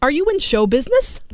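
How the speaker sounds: high, excited gasp of recognition; mock starstruck passenger; amazed stranger. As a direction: gush like you spotted a star. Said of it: "He goes".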